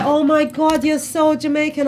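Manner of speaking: high, loud mock exclamation; playful imitation of an excited friend; friend's excited reaction. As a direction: gush like a surprised friend. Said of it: "she was like".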